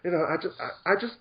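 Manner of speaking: playfully feigned timidity, stammering at the start; tongue-in-cheek meekness with halting starts; mock shyness. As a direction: pretend to struggle to speak up. Plays along with teasing about shyness.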